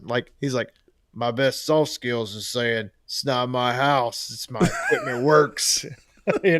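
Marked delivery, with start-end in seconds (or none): 1.1-5.8 lightly put-on raspy voice, slow; slow, raspy impersonation of a friend; Hausch. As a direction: drag it out with a touch of rasp. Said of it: "I'll do my best Hausch impression".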